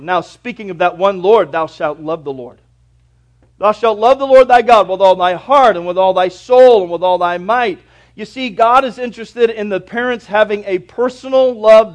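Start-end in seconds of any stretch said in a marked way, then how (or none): 1.5-2.6 softer, lower first reading of the verse; preacher murmurs "Thou shalt love the Lord" softly before the full quote; quiet start of the verse. Shown as a demonstration. Preacher to church, first soft take of the verse. 3.6-7.8 louder, ringing reading with weight on "Lord"; proclaimed scripture. Shown as a demonstration. Preacher to church, booming full recitation of the command.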